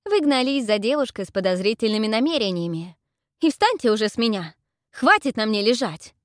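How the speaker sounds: high loud outrage; girl pinned down yelling, high and loud; indignant yelling. Acted. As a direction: yell at him to get off.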